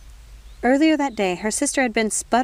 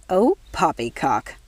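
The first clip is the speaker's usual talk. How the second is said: spat out; 2 semitones lower, slower than usual. Acted. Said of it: "spat Nanny".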